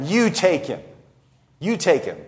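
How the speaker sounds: understated taunt, leaning on "You"; mocking. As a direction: hand it back with mild scorn. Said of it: "So he's mocking them".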